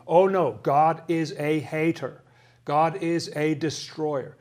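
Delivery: loud opening, then slow, emphatic declarations; adamant. Retold or imitated. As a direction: imitate someone insisting adamantly, word by heavy word. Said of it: "adamantly will tell you".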